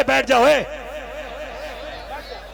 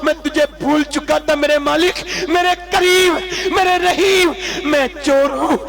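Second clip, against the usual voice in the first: anguished plea; 4 semitones higher than usual. Acted. Repentant Kifl cries out to his Lord in prostration, high and pleading. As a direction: beg for mercy, voice straining upward.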